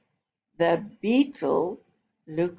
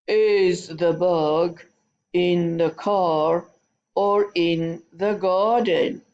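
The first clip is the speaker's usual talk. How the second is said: slow, heavy, a bit louder rhino; 3 dB louder, slower than usual. Shown as a demonstration. Teacher shows the class a slow, heavy rhino voice. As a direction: plod through it like a big rhino. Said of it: "Let's use a rhino voice".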